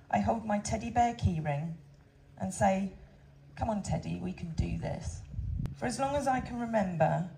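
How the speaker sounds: steady, heartfelt reading of a condolence letter; letter read aloud to visitors, moved but composed. Real, not acted. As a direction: read it to the crowd, holding back tears.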